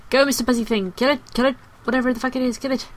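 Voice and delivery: urgent commands. Real, not acted. Player sending Mister Buzzy Thing at an attacker, urgent commands. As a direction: urge an ally on to attack.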